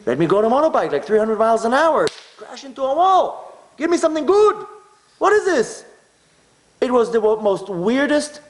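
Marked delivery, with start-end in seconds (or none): 0.1-5.8 indignant demand. Retold or imitated. Imagined demand for good death.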